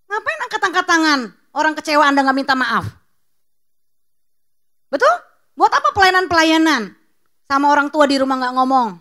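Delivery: loud, forceful preaching rebuke. Real, not acted. Preacher scolding his congregation, loud and forceful. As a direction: scold the church at full volume.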